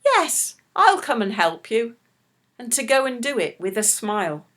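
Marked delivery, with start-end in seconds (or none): 0.1-2.0 cheerful yes. Retold or imitated. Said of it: "the best choice would have been to say".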